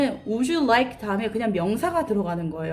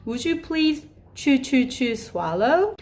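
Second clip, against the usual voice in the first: put-on child-level talk; 3 semitones higher, much slower than usual. Shown as a demonstration. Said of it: "어린아이 수준에 맞게".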